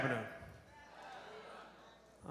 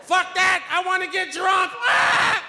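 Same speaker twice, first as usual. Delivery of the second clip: mock the eager cousin shouting; mimicking cousin; 8 semitones higher, much slower than usual.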